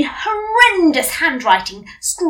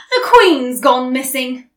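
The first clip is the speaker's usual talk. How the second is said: sarcastically; 7 dB louder than usual. Acted. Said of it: "I said sarcastically".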